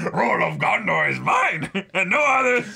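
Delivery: loud, high, bombastic proclamation; hammed-up shout through laughter; steward of Gondor. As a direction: declaim like an outraged ruler, half laughing. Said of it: "I am the steward of Gondor".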